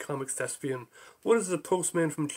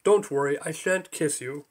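British voice. Acted. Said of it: "Pithy British voice".

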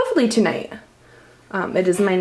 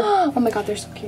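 gasping delight; 4 semitones higher than usual. Real, not acted. First sight of hatching chicks.

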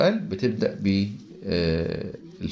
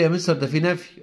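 student's objection; 7 semitones higher than usual. Retold or imitated. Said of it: "هتقول لي".

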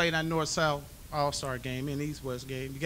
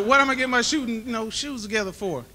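much higher and louder, laughing incredulity; amused disbelief; 9 semitones higher, 9 dB louder than usual. Retold or imitated. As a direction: toss it back at mom in happy confusion. Own retold reply after laugh.

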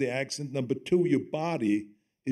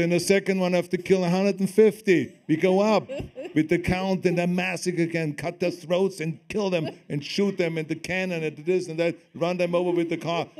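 louder, higher, mock-bloodthirsty enthusiasm; eager retold pitch; 3 semitones higher, 4 dB louder than usual. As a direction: pitch the carnage with comic relish. Retells his eager kill-count pitch to director.

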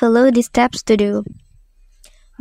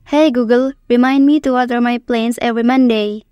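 talking to voice assistant. Shown as a demonstration. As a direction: clear command to the phone. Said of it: "say the example text".

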